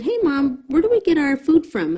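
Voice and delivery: a hint of her young daughter, curious and high; child voice. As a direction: mom lightly voicing her daughter's question. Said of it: "she said".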